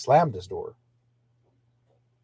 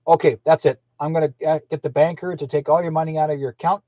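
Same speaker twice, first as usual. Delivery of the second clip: retold yelling; 3 semitones higher, 4 dB louder than usual. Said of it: "he started yelling".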